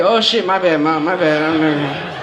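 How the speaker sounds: put-on meek sorry kid. Son apologizing to his mom, low and sheepish. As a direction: mumble it like a caught kid, voice sinking low. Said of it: "And you did it like".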